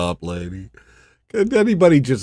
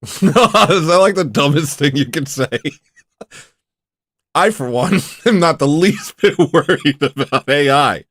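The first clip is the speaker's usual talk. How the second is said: laughing. Real, not acted. Streamer scoffing at fear of AI, laughing. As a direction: laugh through a mocking protest. Laughing at own claim about AI.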